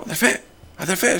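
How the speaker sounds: hushed, mimicked nervous call; not calling out loud. Speaker calling his companion from the door, hushed. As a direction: softly try to get his attention. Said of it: "Δεν φωνάζω".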